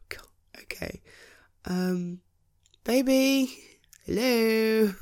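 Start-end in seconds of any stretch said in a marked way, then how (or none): 0.1-1.0 sigh, then whispered god, okay. Acted. Husband whispering to himself at the toy-strewn mess, stunned. Shocked at the messy house.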